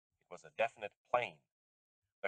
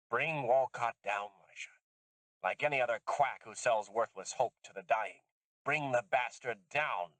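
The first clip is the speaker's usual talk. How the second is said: a different voice; 2 semitones higher than usual. Acted. Susan charging Lisha to ruin Walcott, slow and hard. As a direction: lay down the order slowly. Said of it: "in a different voice".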